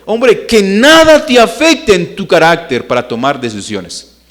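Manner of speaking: high, forceful preaching cry; loud exhortation. Acted. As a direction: call out a booming command to the men.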